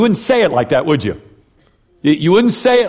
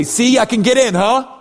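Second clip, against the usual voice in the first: higher-pitched, eager mock pleading of a case; cocky self-justifier; 5 semitones higher than usual. Believer showing God a resume, mock cocky pitch. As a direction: rattle off your good deeds, angling for approval. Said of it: "throw out before God and say".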